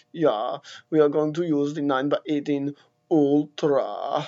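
mock German accent, lightly put on; a clumsy German accent, lightly done; lightly voiced joke German accent; bad German accent. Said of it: "my terrible, terrible, terrible German accent".

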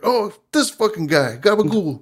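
high, hammed-up New Jersey mobster; East Coast accent. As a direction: lean into the Jersey Italian accent. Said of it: "your Boston accent's showing".

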